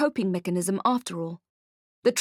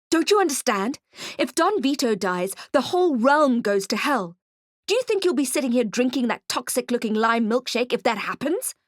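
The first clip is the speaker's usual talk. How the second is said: angry pressing; 3 semitones higher than usual. Acted. Detective threatens goblin.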